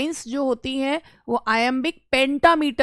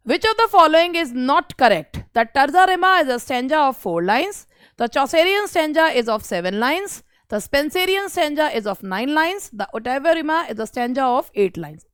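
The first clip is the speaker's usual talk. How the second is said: slow, measured question reading; reading out an exam question; much slower than usual. Acted. Teacher reads the question to her students, slow and measured. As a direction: read each option out clearly for the students.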